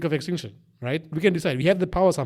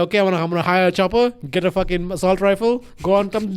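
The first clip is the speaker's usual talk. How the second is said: excited; 3 semitones higher, 5 dB louder than usual. Retold or imitated. Mock plan, excited.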